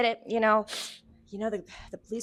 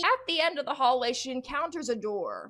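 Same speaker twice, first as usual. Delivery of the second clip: raised-pitch storyteller reading; dramatic narration; 8 semitones higher than usual. Acted. Narrator tells of a door at the hallway's end, dramatic. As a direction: announce the next scene.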